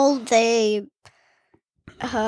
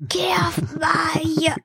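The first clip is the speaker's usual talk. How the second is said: put-on cranky old man; 4 semitones higher, much slower than usual. Kid continues old man bit.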